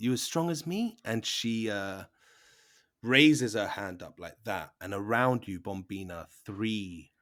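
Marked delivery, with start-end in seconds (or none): 0.0-1.0 put-on, pitched-up orc woman voice. Voicing an orc lady who points at a player: orc lady voice. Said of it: "the orc lady, um, she points her finger at you, Bombina, and says".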